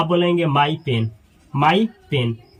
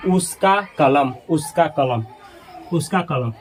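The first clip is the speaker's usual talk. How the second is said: slow repetition; 2 semitones lower, 3 dB quieter than usual. Shown as a demonstration. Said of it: "अगर आप कहते हैं".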